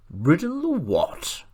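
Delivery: high, loud incredulous retort; extreme contempt. A narrator's reading. Horse retorting to boy who rode a donkey, extreme contempt. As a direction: stretch it out in high-pitched disbelief and scorn. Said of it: "retorted the horse with extreme contempt".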